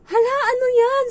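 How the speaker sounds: loud high shocked exclamation; surprised employer. Retold or imitated. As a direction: gasp it out in shock. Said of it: "sabi niya".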